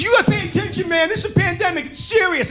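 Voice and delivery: high, insistent lecturing shout; pushy shopper yelling a lecture; mock yelling. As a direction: scold him like a panicked safety nut. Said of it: "he wouldn't stop yelling at me".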